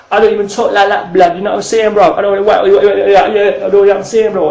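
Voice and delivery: lightly put-on street slang accent; funny street accent. Skinny martial arts teacher joking about street talk, mock street accent. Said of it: "trying to put on some funny accent".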